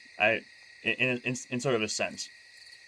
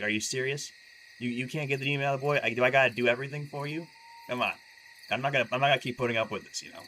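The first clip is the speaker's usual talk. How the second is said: mock exasperated; 4 semitones higher than usual. Jesus fed up with disciples who failed, mock angry rant. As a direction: play an irritated teacher losing patience. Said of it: "he's just so mad at them".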